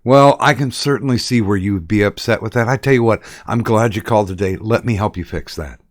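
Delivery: lightly voiced understanding phone agent; sympathetic service agent. Shown as a demonstration. Agent calming an upset caller, lightly played sympathetic service voice. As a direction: start loud on the "oh", then settle into soothing. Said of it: "I used to love to do the".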